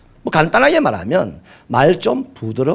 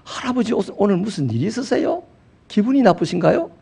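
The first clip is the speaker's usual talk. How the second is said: put-on gentle Seoul child; 5 semitones higher than usual. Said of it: "서울 아이는 이렇게 말을 해요".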